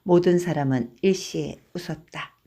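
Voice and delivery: plain reading voice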